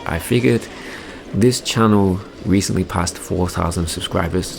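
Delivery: ordinary talk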